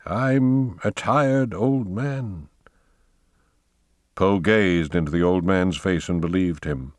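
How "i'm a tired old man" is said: put-on slow, weary old voice; lightly voiced tired old man. Old man tells Poe he is weary, slowly.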